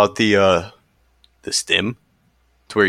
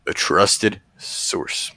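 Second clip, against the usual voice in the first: coyly evasive; 4 dB quieter, much slower than usual. Real, not acted. Evasive line repeated after naming Lewis.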